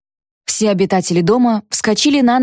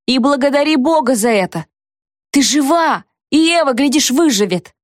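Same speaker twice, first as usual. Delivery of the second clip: higher, pointed retort; tart; 5 semitones higher than usual. A narrator's reading. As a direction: rub it in sharply. Alicia's sharp conclusion.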